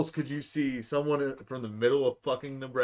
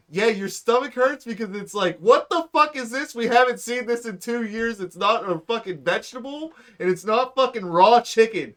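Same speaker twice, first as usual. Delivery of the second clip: mock rant; 8 semitones higher, 8 dB louder than usual. Ranting at the TV show.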